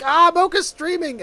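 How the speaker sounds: high-pitched imitation of delighted discovery; retold excitement. Streamer retelling finding Mocha's stream, mock excited. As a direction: act out the moment of noticing, pitch leaping up.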